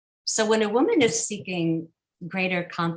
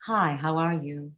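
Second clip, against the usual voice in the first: deeper dropped-larynx voice; low larynx. Shown as a demonstration. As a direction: drop the larynx for depth. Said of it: "And then a drop larynx".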